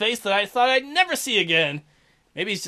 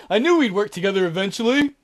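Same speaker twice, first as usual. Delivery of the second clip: villain voice. Acted.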